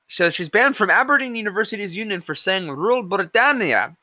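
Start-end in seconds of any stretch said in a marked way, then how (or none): 2.7-4.0 slow, proud announcer flourish on Rule Britannia; grand Rule Britannia. Pretend. Vlogger proudly declaiming Rule Britannia, slow and grand. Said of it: "I don't know why I said it like that".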